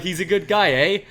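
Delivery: high, loud mock Canadian accent leaning on the eh; playful imitation of a Canadian accent. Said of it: "you're Canadian?".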